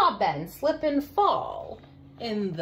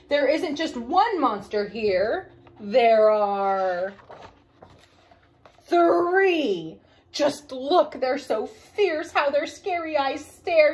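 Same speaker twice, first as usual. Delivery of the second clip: frightened; 4 dB louder than usual. Acted. Daddy terrified of monsters.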